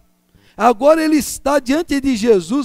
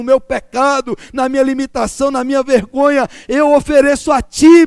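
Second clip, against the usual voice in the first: raised, fervent cry of devotion; impassioned offering; 4 dB louder than usual. Acted. Preacher voicing a believer's offering to God, fervent raised cry. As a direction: lift it up, pouring out devotion.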